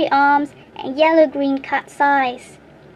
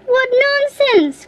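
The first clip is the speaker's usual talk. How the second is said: higher, slow indignant cry; troll crying out; 10 semitones higher, 4 dB louder, slower than usual. A narrator's reading. Troll scoffing at the little boy, slow high cry. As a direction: cry out in scornful disbelief. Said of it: "cried the troll".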